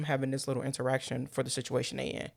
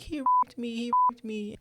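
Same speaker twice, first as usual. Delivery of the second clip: frantic accusing; 9 semitones higher than usual. Retold or imitated. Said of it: "the woman is like".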